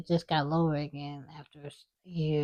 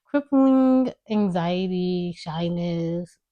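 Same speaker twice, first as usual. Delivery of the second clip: laughing; 3 dB louder, much slower than usual. Real, not acted. Laughing at own word.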